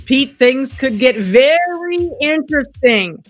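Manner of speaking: slow, dry mock suspense; sarcastic. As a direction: say it with sarcastic fake hype. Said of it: "I'm kinda being sarcastic".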